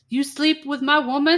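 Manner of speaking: high, loud mock accusation; accusing Julio. Julio confronting the dad, mock accusing shout. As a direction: play the jealous lover barging in.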